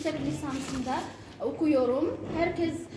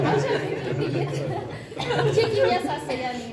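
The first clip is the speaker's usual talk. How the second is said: laughing; 3 semitones higher, 3 dB louder than usual. Real, not acted. Laughing at own joke.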